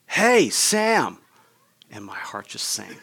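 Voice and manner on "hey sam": higher-pitched retold call across the yard. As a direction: call out to the bully like the friend did. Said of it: "all of a sudden I hear him say".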